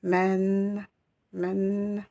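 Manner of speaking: MEN with a held final n; prolonged sound. Shown as a demonstration. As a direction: stretch "Men" into a long hum on the n. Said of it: "vous avez une prolongation".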